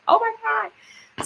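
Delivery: high and slow, delighted disbelief; a slow, high oh-my-God; drawn-out amazement. Retold or imitated. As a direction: stretch it out in mock awe. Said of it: "I was like".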